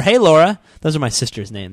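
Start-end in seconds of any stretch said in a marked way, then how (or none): 0.0-0.6 loud, higher imitated greeting; retold phone caller. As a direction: call out a mistaken hello. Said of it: "and they said".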